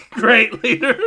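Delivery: high, loud stereotype breaking into laughter; stereotyped follower. Acted. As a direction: play the devoted follower and crack up. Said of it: "they are playing all the stereotypes".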